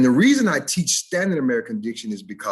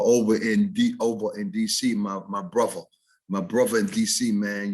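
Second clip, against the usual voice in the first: D.C. street accent, "bruvva" for brother; casual Washington D.C. dialect. Shown as a demonstration. Teacher showing an Eastern subdialect, D.C. accent. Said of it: "a subdialect might be when they say".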